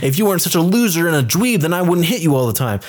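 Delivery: bickering sister. Retold or imitated. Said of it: "going back and forth at each other".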